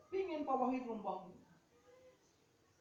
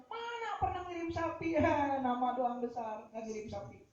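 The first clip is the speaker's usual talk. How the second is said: mock scoffing; 5 semitones higher than usual. Gossips sneering about a kiai's congregation, mock scoffing. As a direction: act out a scornful detractor.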